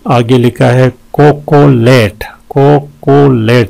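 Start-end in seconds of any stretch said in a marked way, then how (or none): 1.1-2.2 "कोकोलेट" in three held beats; syllable breakdown. Shown as a demonstration. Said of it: "तीन है इसके". 2.5-3.7 "कोकोलेट" in three brisker beats; syllable breakdown. Shown as a demonstration. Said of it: "तीन है इसके".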